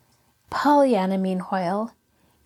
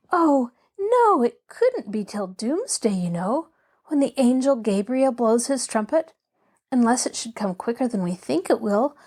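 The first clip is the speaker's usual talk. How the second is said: earnest, flustered Pollyanna; 2 semitones higher than usual. Acted. Girl assuring the patient about doomsday, shocked and flustered. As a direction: tumble into muddled, self-correcting childish explanation.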